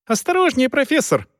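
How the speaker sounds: high shriek of warning. A narrator's reading. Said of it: "Тут взвизгнула женщина".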